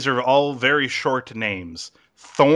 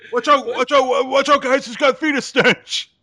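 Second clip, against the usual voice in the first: mock warning; 12 semitones higher, 4 dB louder than usual. Mock warning about gun.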